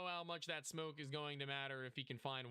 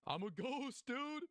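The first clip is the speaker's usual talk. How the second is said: higher, louder laughing claim; excited joke; 10 semitones higher, 3 dB louder, slower than usual. Real, not acted. To chat about his frozen stream, excited higher voice. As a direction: play up being a ghost.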